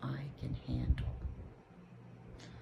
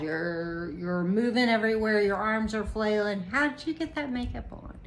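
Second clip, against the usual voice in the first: incredulous; 3 semitones higher, 5 dB louder than usual. Retold or imitated. Incredulous quote of her own thoughts.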